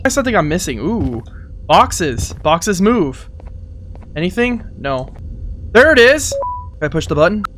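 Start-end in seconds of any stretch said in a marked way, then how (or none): 5.7-6.3 loud, high shout of discovery; excited. Real, not acted. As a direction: call it out with delight. Finds the hidden thing.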